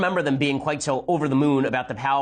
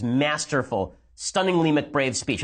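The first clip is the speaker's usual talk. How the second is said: sarcastic slow praise; slower than usual. Acted. Mocking praise of speech.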